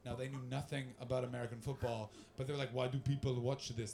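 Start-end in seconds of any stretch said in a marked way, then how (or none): 2.7-3.9 lower, badly faked Russian accent. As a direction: attempt a Russian accent and miss. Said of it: "That's not a Russian accent".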